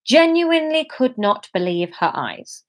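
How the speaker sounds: steady storytelling read-aloud voice; story narration. A narrator's reading. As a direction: read the chapter to your listeners. Reads her novel chapter aloud.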